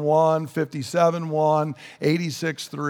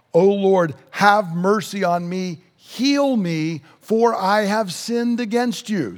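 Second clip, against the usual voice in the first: mild, raised plea for mercy; crying out; 3 semitones higher, slower than usual. Acted. Preacher reading the psalmist's plea to God, crying out. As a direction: read it as a lifted, earnest cry. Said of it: "he's crying out".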